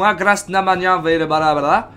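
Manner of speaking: mock alien babble; imitating alien gibberish. Gamer imitating the elites' speech, mock alien babble. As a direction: rattle off made-up alien language. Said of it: "des fois ils font".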